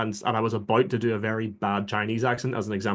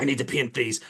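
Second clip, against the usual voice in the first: retold giving in. Retelling himself giving in to miniature painting, mock surrender. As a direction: stress on need, caving in. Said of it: "I was like".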